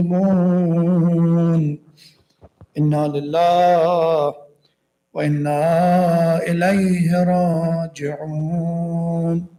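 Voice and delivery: solemn recitation closing a tragic narration; mournful Quranic recitation. Acted. Recited Arabic verses after narration.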